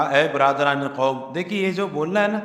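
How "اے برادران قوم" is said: formal address. Shown as a demonstration. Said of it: "یہ بڑا ہمدردی کا جملہ ہے".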